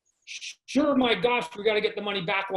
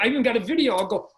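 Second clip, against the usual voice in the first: usual speaking voice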